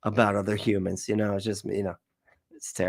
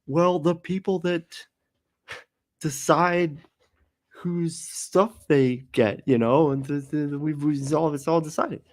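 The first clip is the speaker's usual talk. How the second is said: higher, slow naive explainer; mocking communist voice; 7 semitones higher, slower than usual. Mocking a communist's answer, higher and slow. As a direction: drag it out like a naive believer. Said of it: "mock communist reply".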